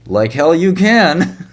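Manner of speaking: loud, slow mocking shout. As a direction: bellow it slowly like an angry caller. Mocking the caller's refusal.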